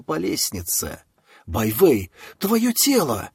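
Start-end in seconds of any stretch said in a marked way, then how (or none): 1.5-3.3 shouting up the stairs in shock; sudden shout. Acted. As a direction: shout her name in alarm. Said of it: "внезапно закричала Цзи Цин".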